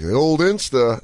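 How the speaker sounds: slow, stretched-out delivery; drawn-out tone. Shown as a demonstration. Host showing how tone changes the old Insta, drawn out. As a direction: draw out 'old Insta' knowingly. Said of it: "if you said it like this".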